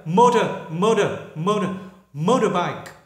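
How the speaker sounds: American "motor" with the t flapped to d; American accent. Shown as a demonstration. Teacher repeats the American accent for students. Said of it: "Người Mỹ là motor".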